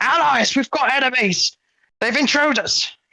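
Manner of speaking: very high, shrill, shouted dwarf voice. Storyteller voicing a dwarf who shouts to his allies about intruders: shouting dwarf. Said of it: "he shouts out".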